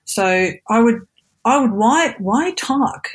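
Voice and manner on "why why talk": put-on accent, American or British. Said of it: "American and British accent".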